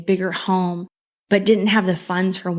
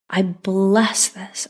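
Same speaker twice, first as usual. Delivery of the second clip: slow blessing; much slower than usual. Shown as a demonstration. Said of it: "I pour God's love and grace over this".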